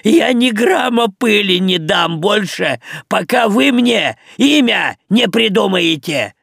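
high, loud hysterical threat; Мух threatening to withhold dust, hysterical; hysterical notes. Acted. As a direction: stamp your foot in a tantrum. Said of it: "истерические нотки".

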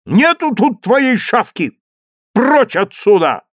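решительный мальчик, громко и выше; стоит на своём, не уступая; твёрдо. A narrator's reading. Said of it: "твердо сказал мальчик". (твёрдо, с нажимом)

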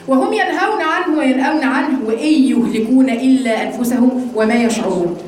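slow scripture reading; verse recitation. Acted. Teacher reciting the next verse for students, slow recitation.

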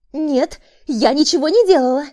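hysterical woman. A narrator's reading. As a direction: shriek her innocence. Repeated hysterical denial. (истерическое отрицание)

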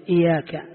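إياك with an i sound at the start and a single, light ya; kasra hamza light ya. Shown as a demonstration. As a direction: say إياك as إِيَاك without doubling the ya. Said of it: "بكسر الهمزة وتخفيف الياء". (نطق إياك بكسر الهمزة وتخفيف الياء)

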